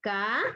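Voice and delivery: "ca" on its own, lifting at the end; teacher sounding out "ca" as an unstressed beat; unstressed syllable. Shown as a demonstration. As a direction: isolate "ca" without any punch. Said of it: "se conoce como átonas".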